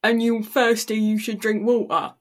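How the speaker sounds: English accent, Walter sounding like water. Shown as a demonstration. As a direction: make both words match in an English accent. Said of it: "Same word".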